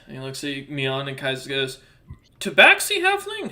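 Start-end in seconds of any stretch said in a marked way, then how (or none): 2.4-3.5 a startled, curious double take at a rare sight; surprised question. Acted. Old merchant sees the halfling's features, higher, surprised. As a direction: pitch leaps much higher in amazement.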